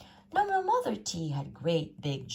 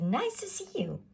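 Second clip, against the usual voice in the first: hooting; 10 semitones higher than usual. A narrator's reading. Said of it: "and they hooted".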